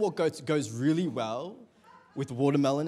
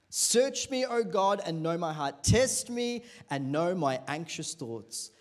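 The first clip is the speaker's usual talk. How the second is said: scripture reading. Acted. Reads Psalm to congregation.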